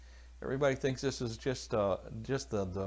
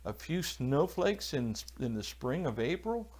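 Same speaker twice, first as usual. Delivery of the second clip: incredulous; 5 semitones higher than usual. Retold or imitated. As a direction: play the friend scoffing at cancelling over snowflakes. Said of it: "he, he said".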